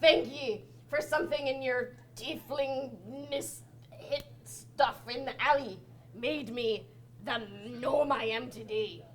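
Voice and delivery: lightly voiced pirate gnome; a touch of drunken pirate swagger; boastful pirate talk, lightly played; barbarian gnome pirate.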